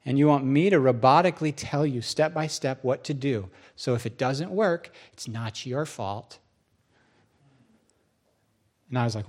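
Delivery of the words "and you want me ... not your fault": measured reply sinking low and soft; calm God. Acted. God explains the preacher's motive to him, calmly. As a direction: settle downward, unruffled.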